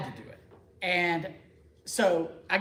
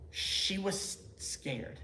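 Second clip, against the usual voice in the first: slow, breathless whispered admission; hushed whisper; 7 dB quieter, much slower than usual. Real, not acted. Husband telling the parish his wife was scared, whispered. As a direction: drop to a whisper as if it still hurts. Confessing wife's fear, hushed.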